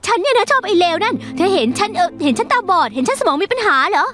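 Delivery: fast, exasperated indignant rant; denying the accusation to her friend, indignant; indignant outburst. Acted. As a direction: throw the accusation back in her face. Heated quarrel with best friend.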